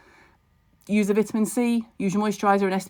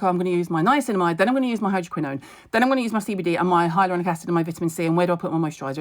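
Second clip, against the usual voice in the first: frantic rush; much faster than usual. Retold or imitated. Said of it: "I wouldn't go crazy and be like".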